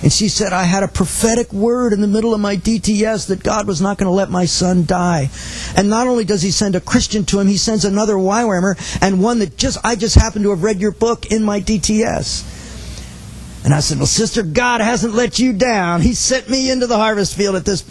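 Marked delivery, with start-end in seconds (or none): 0.5-12.4 higher, emotional retelling of a weeping mother; retold tearfulness. Mother tells the evangelist of a prophetic word about her son, mildly tearful. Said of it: "then she starts weeping over the phone". 14.0-17.8 higher-pitched, slowed retold encouragement; fervent reassurance. Evangelist answers a weeping mother on the phone, fervently reassuring.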